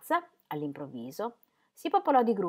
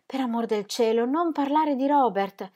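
exclaimed; 5 semitones higher, 3 dB louder than usual. Acted. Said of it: "esclamò alzandosi di scatto".

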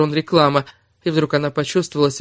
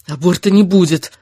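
growled refusal; 3 semitones higher, 6 dB louder than usual. A narrator's reading. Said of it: "прорычала она".

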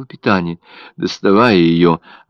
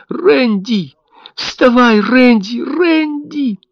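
very high, louder wailing cries; desperate scream; 4 dB louder, much slower than usual. A narrator's reading. Mother screams at her dead baby to get up, a desperate wail. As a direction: scream his name in despair. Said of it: "закричала жутким, отчаянным криком".

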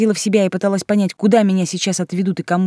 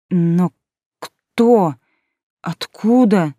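bewildered questions; 5 dB louder, much slower than usual. A narrator's reading. Heroine stunned by news.

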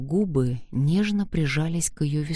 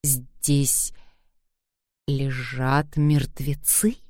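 breathless and trembling; much slower than usual. Acted. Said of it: "Задыхаясь, Кэтрин с трудом выдавила".

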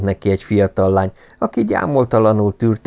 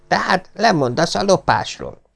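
raised, lightly voiced stern father; stern old lord; 10 semitones higher than usual. A narrator's reading. Lord Travers lecturing his thieving son, higher stern voice. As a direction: lay down the law to the heir.

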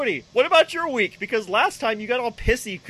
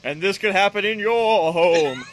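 slow, grave public-warning voice; a hint of a doom-laden PSA narrator; ominous announcer; 4 dB louder, slower than usual. Friend riffing on Reefer Madness, slow warning tone. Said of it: "seventies cop movie".

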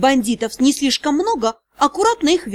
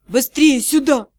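nervous shout. A narrator's reading. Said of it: "раздался нервный окрик Пауля".

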